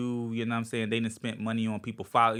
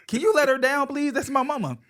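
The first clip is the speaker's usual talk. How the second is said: higher, louder, laughing plea; embarrassed son; 11 semitones higher, 6 dB louder than usual. Retold or imitated. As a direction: beg them politely through laughter. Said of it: "I'm like".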